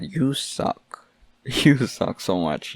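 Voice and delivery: teasing with a laugh; giggling playful put-down; laughing mock insult. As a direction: jokingly jeer you suck. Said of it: "this is not actually serious".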